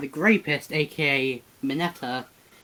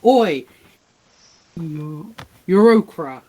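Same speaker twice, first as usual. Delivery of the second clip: acted yell; 8 dB louder, slower than usual. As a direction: yell at them to get their attention. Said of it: "So he yells at them".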